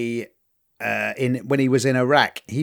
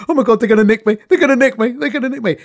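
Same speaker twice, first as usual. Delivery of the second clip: higher, louder frantic repeating; paranoid panic; 9 semitones higher, 5 dB louder, much faster than usual. Retold or imitated. Curled up alone fearing arrest, mock panicked repetition. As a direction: chant it like a panicking stoner on the floor.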